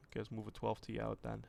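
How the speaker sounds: usual speaking voice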